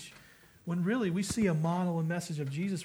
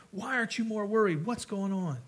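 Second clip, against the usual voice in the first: panicked priest; 4 semitones higher than usual. Retold or imitated. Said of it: "he's freaking out".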